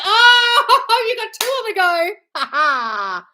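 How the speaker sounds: high, loud whoop breaking into laughter; laughing, high-pitched tease; delighted teasing. Real, not acted. Teasing viewer about two partners.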